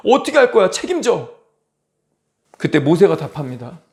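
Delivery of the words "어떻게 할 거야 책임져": high-pitched blaming outburst, acted; imitated indignant protest; mock angry complaint. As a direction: play the aggrieved crowd demanding answers. Voices Israelites blaming Moses.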